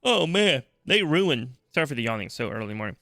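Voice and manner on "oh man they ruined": loud, higher mock groan of letdown; hammed-up disappointment; acted dismay. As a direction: play the let-down fan. Acts out dreaded letdown on entering.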